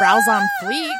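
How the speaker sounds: squealed joke through laughter; laughing squeal. Real, not acted. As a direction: shriek it while cracking up. Laughing comment on photo.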